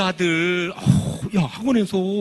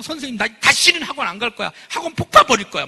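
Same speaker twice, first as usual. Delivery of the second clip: put-on fuming boy, voice rising; mock-furious son venting about school; huffing angry kid; 3 semitones higher, 4 dB louder than usual. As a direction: huff it out like a sulky teen. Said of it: "씩씩거리면서".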